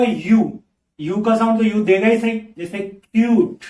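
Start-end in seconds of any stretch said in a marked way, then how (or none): 2.8-3.6 क्यूट said slowly with a clear यू glide; teacher demo of क्यूट with a यू sound; yoo sound. Shown as a demonstration. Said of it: "उसको यू भी पढ़ सकते हैं".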